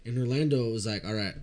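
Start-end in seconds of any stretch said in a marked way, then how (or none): 1.0-1.3 softly sincere, meant it. Retold or imitated. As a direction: say it earnestly and gently. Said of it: "in the most sincere voice".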